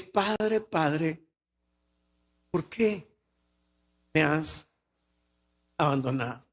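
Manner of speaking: soft, sinking to low on abandonado; fading plea. Retold or imitated. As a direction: let the plea fade away to almost nothing.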